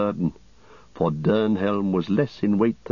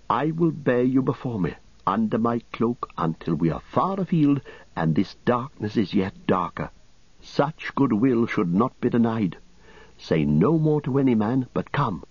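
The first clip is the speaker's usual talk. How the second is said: lightly voiced young rider, pitched higher; hooded young rider, hushed and earnest, voiced higher; 3 semitones higher than usual. Dernhelm voiced by narrator.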